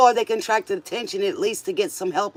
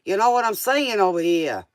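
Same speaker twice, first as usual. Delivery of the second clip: put-on New York accent. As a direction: toss it off like a New Yorker. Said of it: "like I'm from New York or something".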